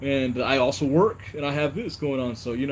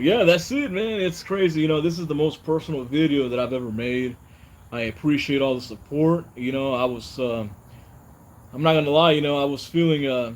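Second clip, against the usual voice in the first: ordinary talk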